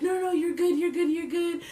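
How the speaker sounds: high, hurried string of reassurances; urgent mock reassurance. Friend reassures the embarrassed girl, hurried high reassurance.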